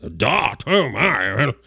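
breathless eager reporter voice; mock excited reporters. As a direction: gush like a news-hungry journalist. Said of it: "everybody's nodding like".

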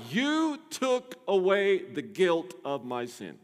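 slow, lightly voiced prayer of relief; a hint of David praying. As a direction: speak it as David's grateful prayer. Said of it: "He's telling God".

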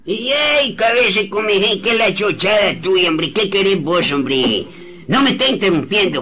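high, irritated snapping; annoyed. Acted. Old man snapping at the nephew who interrupts, irritated. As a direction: brush off the pest.

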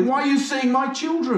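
high mock-alarmed question. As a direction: panic in jest.

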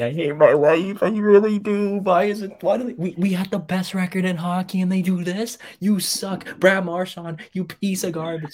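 real upset outburst at a blown lead; upset rant. Real, not acted. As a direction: let the frustration spill out at the team. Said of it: "Sorry, I'm getting upset now".

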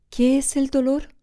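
voz de niño más aguda, insistente; un niño que repite la pregunta en voz más alta; vocecita de flautín. A narrator's reading. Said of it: "alzando su vocecita de flautín". (vocecita aguda de niño que insiste)

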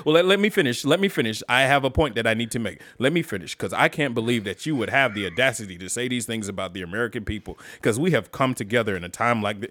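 mock debater talking over interruptions; imitating filibustering politician. Playing a candidate who won't yield, imitating a politician. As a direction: press on like a candidate claiming the floor. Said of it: "that motherfucker was out there filibustering. Just talking".

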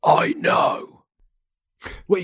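hushed whisper. Real, not acted. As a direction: whisper it secretly. Hushed reply to teammate.

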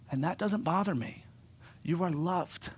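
soft, unhurried comfort; tender reassurance. Retold or imitated. Jesus reassuring the woman who is a sinner, tender. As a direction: reassure her gently, letting it settle.

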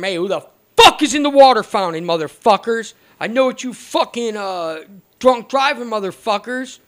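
a loud, angry shout at the guys by the water fountain; retold yell. An inmate angrily shouts at the kids at the water fountain. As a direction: bark it out like a pissed-off inmate. Guy yelling from the bathroom.

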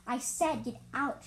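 slow, firm demand; snarled. Acted. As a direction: lay down the order slowly. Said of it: "she snarled demandingly".

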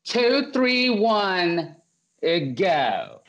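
high, stiffly formal countdown with nerves; Chelsea. Retold or imitated. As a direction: imitate a nervous friend counting off too formally. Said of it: "Yes, she was nervous. So she goes".

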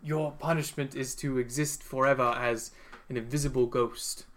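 softly voiced Dumbledore, unplaceable accent; solemn sentence in a wobbly, unidentifiable accent; uncertain put-on accent. Dumbledore telling Voldemort his eternal punishment, soft put-on accent. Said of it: "I don't know what this accent is".

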